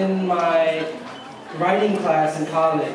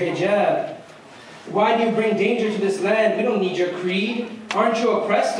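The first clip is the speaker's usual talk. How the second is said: slightly raised pitch, pressing interrogation; accusing questions; 3 semitones higher than usual. Acted. Co-workers questioning a woman about her hijab, mildly accusing. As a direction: fire off rhetorical questions in spoken-word rhythm.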